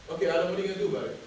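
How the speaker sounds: quick, unmoved repeat of the question; brisk retort. Retold or imitated. Speaker refusing to indulge friend's complaint, brisk retort. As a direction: fire it back without sympathy.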